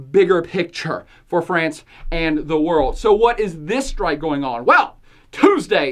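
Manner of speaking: usual speaking voice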